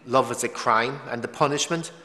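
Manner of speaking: loud, emphatic outrage, building to the last word; mock condemnation. Voicing those who shunned a former religious for dating, condemning.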